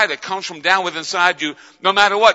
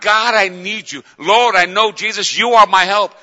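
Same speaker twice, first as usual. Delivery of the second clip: raised, fervent plea; crying to God; 3 semitones higher, 5 dB louder than usual. Acted. Believer crying to God for help, fervently. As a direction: call out your need with force. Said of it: "Gives us a cry to God".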